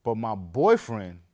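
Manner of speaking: put-on loud, slow, drawn-out boyfriend line; a hint of the eager cashier; lightly voiced cashier. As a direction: play the cashier cheerfully announcing. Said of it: "She said".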